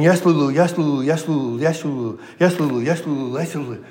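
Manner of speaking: a hammed-up happy inmate, rising on each yes; gleeful inmate. Inmate voiced in joke punchline.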